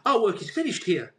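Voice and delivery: hammed-up Keanu line, a touch posh; a hint of a bad Victorian accent; mock Keanu accent. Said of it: "Stop talking, Keanu".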